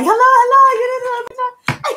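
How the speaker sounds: high mock lady voice; imitating the lady. Vlogger imitating the delivery lady, high mock voice. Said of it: "Lady's like".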